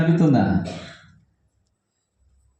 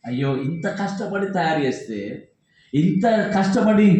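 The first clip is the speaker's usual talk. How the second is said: grieving maker. Retold or imitated. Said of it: "తయారు చేసిన వాడు బాధపడతాడు".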